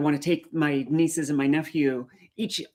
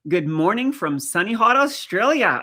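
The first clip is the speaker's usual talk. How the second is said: attempted Australian accent; 4 semitones higher, 5 dB louder than usual. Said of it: "I can't do your accent".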